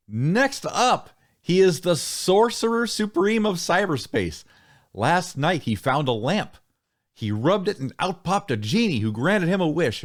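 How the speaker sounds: lilting emcee introduction; playful host building up a guest; show announcer. Acted. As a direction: introduce the next act with swooping showman's pitch.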